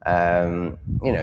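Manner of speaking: normal talking voice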